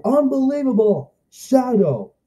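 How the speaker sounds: excited awe. Retold or imitated. Kid reacting to Shadow in the show, excited awe. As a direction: marvel at the hero showing up. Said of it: "And I'm like".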